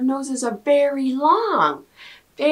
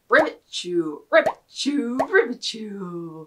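frog sneeze. Pretend. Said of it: "he's going to sneeze".

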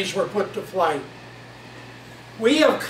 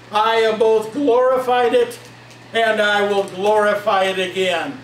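voice from heaven. Acted. God answers Jesus from heaven, in a lightly voiced heavenly voice. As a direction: boom it gently down from heaven. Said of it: "Then came there a voice from heaven and said".

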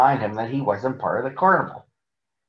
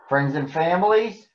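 mild shout; 5 semitones higher than usual. Acted. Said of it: "shouted the older elephant".

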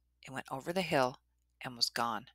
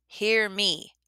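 big, raised beast voice; looming monster voice; 5 semitones higher, 5 dB louder than usual. A narrator's reading. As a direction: call out as the monster. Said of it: "said the Niawaguhi".

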